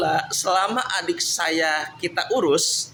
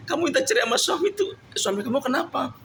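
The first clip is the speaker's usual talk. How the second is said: mock friend's question; 7 semitones higher, faster than usual. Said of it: "ditanya sama teman-teman".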